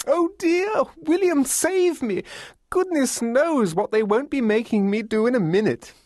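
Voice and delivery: high, theatrical plea for rescue; fluttery, high-pitched mock distress; shrill and gleeful. A narrator's reading. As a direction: wail in falsetto, secretly delighted. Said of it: "Arthur's voice was shrill and gleeful".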